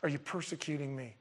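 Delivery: softly voiced plea, sinking at the end; gentle Jesus. Preacher imagining Jesus speaking to Saul, gentle. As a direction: let the question drop away quietly, unthreatening. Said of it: "I'm sure Jesus was like".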